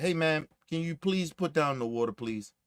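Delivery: nicer, polite. Shown as a demonstration. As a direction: ask her calmly and respectfully. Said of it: "Or you could have been nicer about it".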